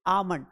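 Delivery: आमंड repeated as "aamand", L silent; repeat the word. Shown as a demonstration. Teacher repeats the word for students: आमंड with a silent L. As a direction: clear model आमंड for the class. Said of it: "क्या पढ़ेंगे?".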